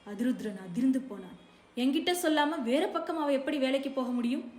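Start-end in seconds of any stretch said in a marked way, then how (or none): 1.8-4.5 higher, louder angry demand. A narrator's reading. Man angrily confronting the mother, louder. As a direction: fire the question back in shock and anger. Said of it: "என்று கோபத்துடன் கேட்டான்".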